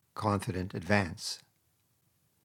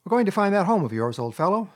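higher, louder and quicker, cheerful; pleasant cheer; 9 semitones higher, 5 dB louder than usual. Acted. Rat to tearful Mole, announcing the search: bright and pleasant. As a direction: cheer him up with the plan. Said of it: "replied the Rat pleasantly".

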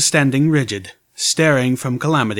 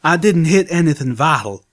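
through clenched teeth; 5 semitones higher, 4 dB louder than usual. A narrator's reading. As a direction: speak with gritted teeth. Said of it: "through clenched teeth".

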